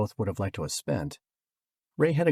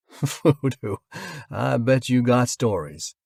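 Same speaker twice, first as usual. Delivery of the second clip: amused; 4 semitones higher, 7 dB louder, slower than usual. A narrator's reading. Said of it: "Another laugh".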